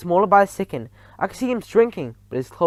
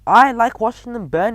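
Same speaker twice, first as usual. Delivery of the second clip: put-on a smug, taunting boy, pitched up and loud; 7 semitones higher, 7 dB louder than usual. A narrator's reading. Bruno gloating to the narrator, pitched-up taunt. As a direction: gloat over the fire.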